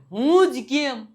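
loud mock protest, why me. Teacher acting a fed-up child at home, loud mock protest. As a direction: throw it out like a fed-up kid.

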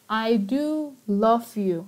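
"do" lifted and drawn out before "love you"; emphatic DO. Shown as a demonstration. Teacher showing students emphasis with do, emphatic "do". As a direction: lean on "do" to insist it is true. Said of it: "to emphasize that I really love you".

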